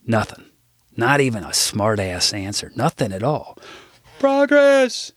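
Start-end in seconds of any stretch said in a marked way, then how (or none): 4.2-5.1 a much higher, louder eager yell; overeager shout. Retold or imitated. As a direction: blurt it out like an overeager principal. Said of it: "shouted an overeager Rusty".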